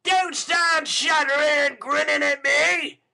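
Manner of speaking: loud, high angry snap; impatient. Acted. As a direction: snarl at the old man. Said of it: "Sikes impatiently".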